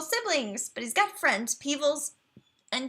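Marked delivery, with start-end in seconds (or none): 1.5-2.1 "Peebles" said as PEE-vulz, with a v sound; chosen pronunciation. Shown as a demonstration. Streamer reading a dragon's name, says "Peebles" as PEE-vulz. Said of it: "is how I'm going to pronounce that".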